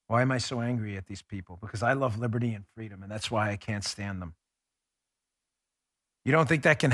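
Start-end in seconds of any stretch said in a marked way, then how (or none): 0.1-4.3 quieter aside. Real, not acted. Sudden drop after the rant.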